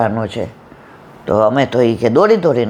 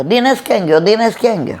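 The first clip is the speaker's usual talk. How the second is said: higher, urgent mock calling; 6 semitones higher, faster than usual. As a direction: call across the crowd for Dinesh. Guests calling for the groom. (ઊંચા સૂરે બૂમ પાડીને શોધવું)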